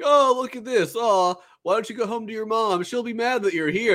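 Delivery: high-pitched jeering imitation; mocking taunt. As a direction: tease him like a little kid. Voices players taunting Kuroko.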